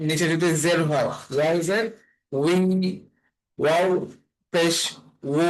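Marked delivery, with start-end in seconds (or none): 1.4-2.6 উই starting from rounded lips. Shown as a demonstration. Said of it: "ঠোঁটটা গোল হয়ে তারপরে ওই উচ্চারণটা". 3.6-5.4 পেশ then উ with rounded lips. Shown as a demonstration. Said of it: "ঠোঁটটা গোল হয়ে তারপরে ওই উচ্চারণটা".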